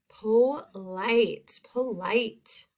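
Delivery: "Polite" in two separated, drawn-out syllables; long I sound. Shown as a demonstration. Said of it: "that long I sound".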